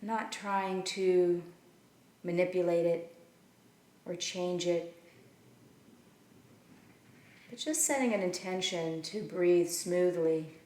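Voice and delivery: measured meditation guidance with long pauses between phrases; unhurried, leave room to breathe after each instruction; guided meditation. Acted. Teacher settling listeners into their seats and breath, guided meditation.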